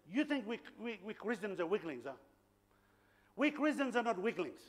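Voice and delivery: lightly imitated Angan accent; retold challenge in an Angan accent; powerful Angan accent. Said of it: "in a powerful Angan accent".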